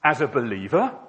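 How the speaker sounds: accusing God, weighty and emphatic; voice from the sky. Acted. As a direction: confront the sinner from on high. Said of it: "a voice came out of the sky".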